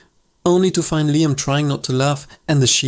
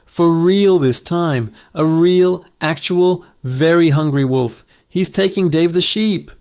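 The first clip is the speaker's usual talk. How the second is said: genuine terror; 3 semitones higher than usual. Acted. Boy pleading with the village about the real wolf, terrified. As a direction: beg them to believe you. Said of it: "his voice cracking with genuine terror".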